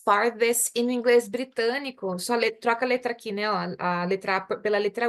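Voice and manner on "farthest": farthest said slowly and clearly. Shown as a demonstration. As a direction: spell out farthest in English. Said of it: "e o far, que vira".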